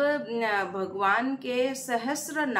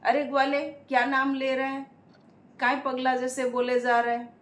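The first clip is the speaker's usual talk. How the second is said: raised, higher sharp rebuke; scolding; 3 semitones higher, 3 dB louder, faster than usual. Acted. Disguised Lakshmi scolding the chanting cowherd, loud. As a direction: scold him like a stern woman. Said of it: "माता लक्ष्मी ने उसे डांटा".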